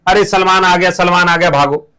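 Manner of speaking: teacher acting kids shouting that Salman has come; mock kids' yell. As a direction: yell the warning and tell them to run. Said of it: "midnight में बच्चे चिल्ला रहे हैं".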